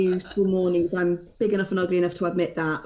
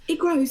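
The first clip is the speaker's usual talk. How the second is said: "It grows" lifted high and louder; emphatic repeat; 7 semitones higher, 4 dB louder than usual. Real, not acted. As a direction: hammer home "grows".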